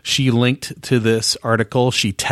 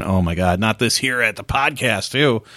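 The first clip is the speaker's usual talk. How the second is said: eye-rolling groan. Retold or imitated. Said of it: "rolling your eyes going".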